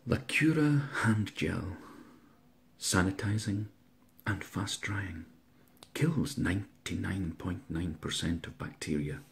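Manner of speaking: breathy ad voice, fading to a whisper; mock ad read. Pitching a hand gel to viewers as a spoof ad. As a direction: sell the hand gel like a commercial.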